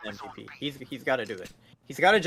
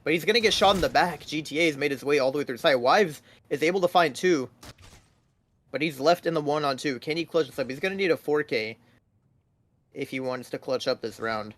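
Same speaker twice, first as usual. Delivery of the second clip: esports caster. Acted. Live play-by-play casting.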